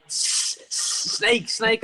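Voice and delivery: panicky, tripping over "snake"; panicked stammer. Retold or imitated. Stammering about snake to staff.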